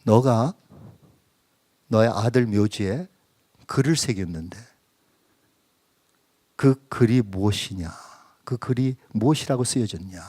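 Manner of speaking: a hint of a calm divine question; gentle voice of God. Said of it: "주님께서 조용히 이렇게 저와 소통하는".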